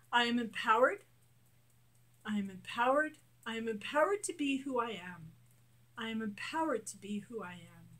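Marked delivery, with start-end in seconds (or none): 0.1-1.0 bold affirmation. Shown as a demonstration. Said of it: "affirmations growing softer". 2.2-5.3 guided affirmations. Shown as a demonstration. Coach leading a tapping exercise, steady affirmations.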